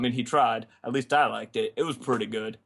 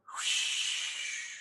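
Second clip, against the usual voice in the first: tumbleweed whoosh; 8 dB quieter than usual. Acted. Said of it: "That's a tumbleweed".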